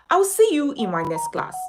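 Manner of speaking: said through a laugh. Real, not acted. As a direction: laugh while signing off. Baby arrives, laughing.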